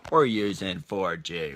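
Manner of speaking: slow, each word stretched; slow, drawn-out take. Shown as a demonstration. To viewers as the phone leaves Wi-Fi, slow and drawn out. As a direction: drag it out deliberately. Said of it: "repeats the line at two paces".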